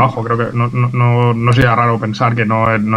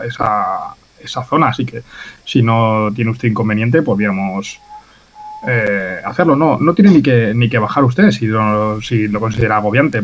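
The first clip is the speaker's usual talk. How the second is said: put-on Italian accent. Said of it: "intento forzar un poquito un acento italiano".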